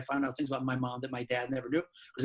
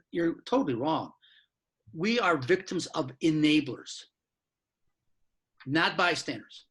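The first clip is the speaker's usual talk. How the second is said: forceful, slow, insistent retelling of her outburst; a mild mock yell, not full volume; retold screaming; slower than usual. Victim correcting the author, retold as a slow firm protest. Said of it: "She was screaming at me".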